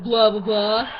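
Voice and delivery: loud teasing blah; hammed-up vampire mimicry; mocking vampire imitation. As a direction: tease with a fake vampire catchphrase. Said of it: "They're like".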